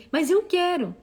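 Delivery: put-on high, slow whining kid; whiny child. Mother quoting her child's whiny demand. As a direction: whine it like a stubborn child.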